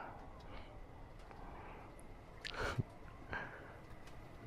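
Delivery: soft, airy laugh; low-key chuckle. Acted. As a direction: chuckle quietly under the breath. Chuckles after flirting.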